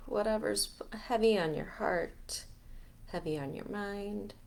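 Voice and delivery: guided meditation. Acted. Leader guiding listeners to let heavy energies go, guided meditation. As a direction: ease them through each breath, unhurried. Leads a breathing release meditation.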